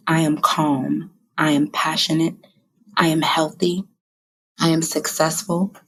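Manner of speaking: steady, measured reading of her I am list; reading affirmations. Real, not acted. To her viewers, reading what she wrote, steady and measured. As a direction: declare each affirmation calmly, one by one.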